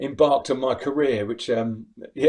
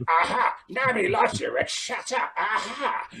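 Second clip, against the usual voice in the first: much higher mocking punk taunt; Vivian; 9 semitones higher than usual. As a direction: jeer at Rick like the wild punk. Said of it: "Like that, Rick and Vivian".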